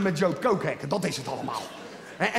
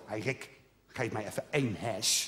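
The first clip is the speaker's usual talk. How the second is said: lightly voiced begging; 8 semitones lower, 5 dB quieter than usual. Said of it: "Zo van".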